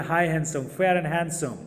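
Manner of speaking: like a TV ad voiceover, lightly done; a light imitation of an ad tagline; ad jingle line. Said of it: "प्रचार देखे होंगे".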